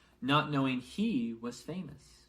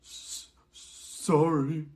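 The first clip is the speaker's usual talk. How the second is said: slow, stammered sob, higher and louder; sobbing; 5 semitones higher, 8 dB louder, much slower than usual. A narrator's reading. Hagrid apologizes to McGonagall while sobbing. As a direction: choke out the apology. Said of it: "sobbed Hagrid".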